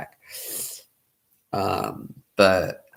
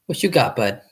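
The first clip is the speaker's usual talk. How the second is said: talking to a dog; 5 semitones higher, 3 dB louder than usual. Real, not acted.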